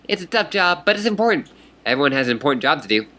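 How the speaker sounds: put-on high, bubbly fish girl voice; excited fish troll. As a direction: greet her like an eager fish troll.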